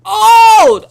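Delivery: sudden high, loud mock jeer; joking loud high outburst; teasing shout. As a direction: blurt it as a playful yell. Teasing shout, then kidding.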